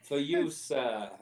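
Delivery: slow, drawn-out for you sir; sighing barkeep's service; weary politeness. Acted. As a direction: serve it with tired courtesy. Barkeep serves resignedly.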